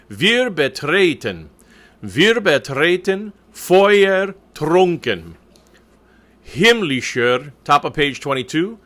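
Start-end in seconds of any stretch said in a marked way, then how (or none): 0.1-7.5 measured German reading, every syllable drawn out; slow diction model. Shown as a demonstration. Coach reading the text for the choir, slow careful diction. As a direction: read "Wir betreten Feuer trunken, Himmlischer" slowly and firmly. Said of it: "I'll be doing some reading of the text".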